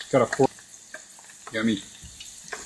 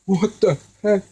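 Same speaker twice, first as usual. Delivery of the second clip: shocked; 8 semitones higher than usual. Retold or imitated. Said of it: "I'm like".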